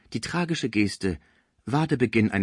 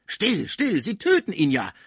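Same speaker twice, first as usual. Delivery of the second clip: higher and a bit louder, pleading; urgent hush; 8 semitones higher, 4 dB louder than usual. A narrator's reading. Schmucke begs Cibot to be still, higher. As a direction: hush her before it kills him. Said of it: "rief Schmucke".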